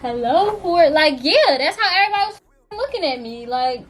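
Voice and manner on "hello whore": slow, drawled meme sound quoting the TikTok; mock the viral clip slowly; slow mocking meme delivery. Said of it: "Y'all know that TikTok?".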